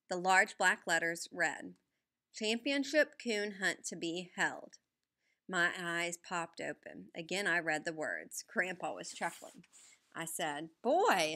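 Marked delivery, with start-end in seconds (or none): 2.3-4.8 slow, deliberate reading of a headline. Acted. Reading headline aloud slowly. 10.8-11.3 high, loud exclamation; excited. Acted. Boy amazed by headline.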